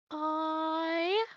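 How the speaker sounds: long, drawn-out vowel after a sigh; slow, painful writing. Acted. Hoshi forcing out a written apology, painfully slow. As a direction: stretch it out reluctantly. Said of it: "he's slowly, painfully writing".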